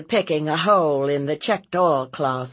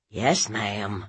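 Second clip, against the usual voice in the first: tag; 4 semitones lower than usual. Acted. Cowed nephew answers.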